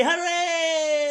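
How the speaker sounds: high, loud cheer; hooray. Acted. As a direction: celebrate the escape. Cockerel escapes.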